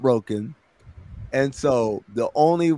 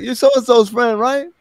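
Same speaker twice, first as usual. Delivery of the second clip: mock woman's voice; 10 semitones higher, 3 dB louder than usual. Woman placing a stranger.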